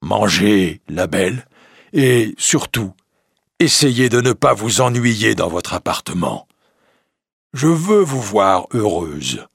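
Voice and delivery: the beast offering to leave, timid and sincere; lightly voiced gentle beast. The beast asking Belle if she finds him ugly, humbly.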